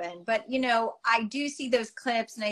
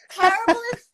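loud exclamation; 12 semitones higher, 8 dB louder than usual. Real, not acted. Cringing at old photos.

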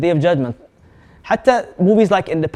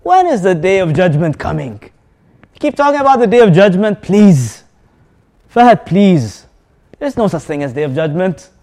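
mocking question. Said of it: "ayyana means asks mockingly".

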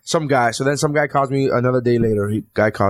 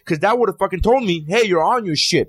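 higher-pitched, worked-up rant; real rage; 4 semitones higher than usual. Real, not acted. Ranting to friends about the server, really worked up. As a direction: vent it, pitched up and indignant. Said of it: "he's in rage".

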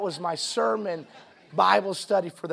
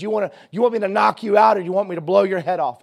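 taunting robber; 3 semitones higher, 8 dB louder than usual. Retold or imitated. Robber taunts cousin with gun.

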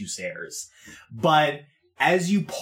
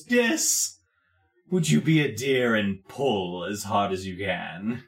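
lightly voiced lord giving a courteous cruel order; politely menacing Wallace; 3 semitones lower than usual. Wallace asks the henchman to pull hard, lightly voiced polite menace. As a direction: make a polite request into a threat.

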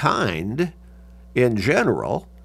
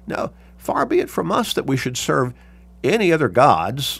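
raised pitch, firmly emphatic refusal; emphatic statement; 4 semitones higher than usual. Retold or imitated. People refusing to serve other gods, emphatic. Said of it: "The people are making an emphatic statement".

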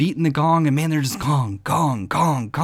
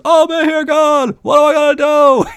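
high, loud whiny sitcom voice; Seinfeld-style whine; Jerry Seinfeld voice; 12 semitones higher, 7 dB louder than usual. Retold or imitated. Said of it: "that Jerry Seinfeld voice".

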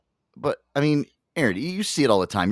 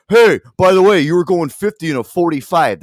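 loud, higher-pitched imitation of a heckler; mock calling out; 4 semitones higher, 9 dB louder than usual. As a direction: call out accusingly, imitating a busybody. Imitates kid accosting a state trooper.

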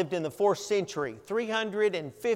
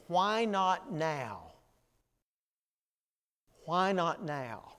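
slow, hushed inner voice; soft whisper; 3 semitones lower, 9 dB quieter, slower than usual. A narrator's reading. Preacher voicing the heart's hushed reply to Augustine. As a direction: breathe it like a voice within. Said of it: "his heart answered him in a whisper".

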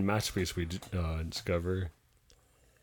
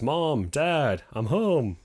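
bunny calling home; 4 semitones higher, much slower than usual. Acted. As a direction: call out to parents on coming home. Bunny calls out arriving home.

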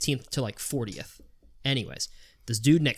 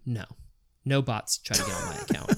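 imitating Tommy. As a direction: squeak out the denial like a know-it-all. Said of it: "And he was like".

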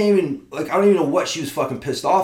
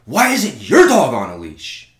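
slow, louder imitation of an irate woman; mock screaming; 6 dB louder than usual. Angry dog owner demands of him, mock screaming. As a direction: put on her indignant yell, drawn out. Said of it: "this lady starts screaming at me".

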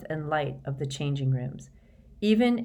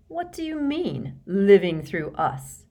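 high-pitched start, then slow, loud echo; sharp retort; 4 semitones higher, 4 dB louder, slower than usual. A narrator's reading. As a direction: throw the phrase back, affronted. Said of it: "Harry retorted".

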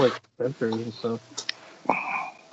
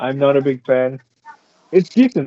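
muffled. Real, not acted. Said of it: "you sound muffled a bit".

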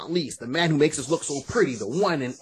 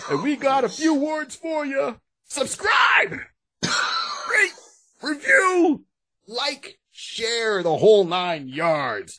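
ringmaster; 10 semitones higher, much slower than usual. Acted. Hyped call to subscribe.

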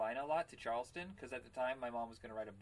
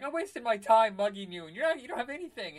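higher, louder indignant complaint; exasperated mugger; 8 semitones higher, 11 dB louder than usual. Retold or imitated. Mugger scolding his penniless victim, exasperated.

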